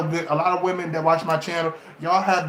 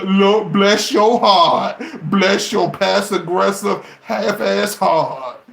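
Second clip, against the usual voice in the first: sarcastic blessing; 2 semitones higher, 4 dB louder, slower than usual. Real, not acted.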